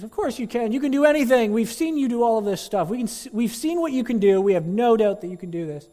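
high, loud eager cheers; cheering crowd. Acted. Crowd cheers on the daredevil, high excited shouts. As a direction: gush like a believing fan.

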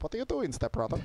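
hammed-up Eastern European accent; Russian accent. Shown as a demonstration. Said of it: "you gotta say it in the Russian accent".

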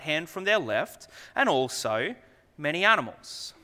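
measured, earnest Bible reading; scripture reading. Acted. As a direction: read the passage to the congregation with weight. Reads Scripture aloud to congregation.

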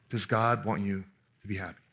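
hushed, probing repeat with weight on God; soft repeated question. Shown as a demonstration. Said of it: "repeats the question".

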